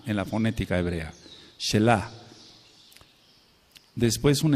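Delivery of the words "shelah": "Shelah" con acento en la última A. Shown as a demonstration. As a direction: di "Shelah" cargando la sílaba final, "lah". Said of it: "acento en la A". ("Shelah", aguda, a la manera hebrea)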